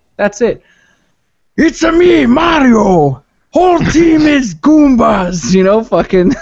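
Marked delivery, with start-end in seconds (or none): 1.6-5.5 high-pitched, very slow, stretched-out, every word drawn out. Imagining game heroes voiced differently, Mario talking like the Heavy: Heavy voice. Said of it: "should just talk like the heavy".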